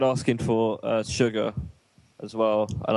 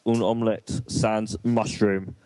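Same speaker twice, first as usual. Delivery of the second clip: imitated halting French; slower than usual. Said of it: "She's like, uh".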